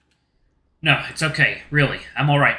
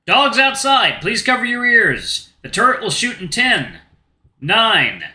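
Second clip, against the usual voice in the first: announcing countdown; 4 semitones higher, much slower than usual. Acted.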